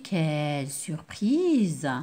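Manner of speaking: slow amazed exclamation; surprised exclamation. Shown as a demonstration. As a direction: savor the surprise slowly. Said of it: "Ou bien une surprise".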